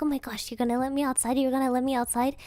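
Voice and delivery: fast, eager dog voice; excited dog. Retold or imitated. Dog asking to go outside, fast and eager. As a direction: rattle it off like a thrilled puppy. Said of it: "He was like".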